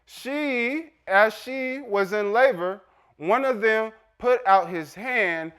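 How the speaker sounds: measured reading with emphatic pauses; scripture reading. Acted. Preacher reading Tamar's story to congregation, emphatic scripture reading. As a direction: read it out to the congregation, phrase by phrase.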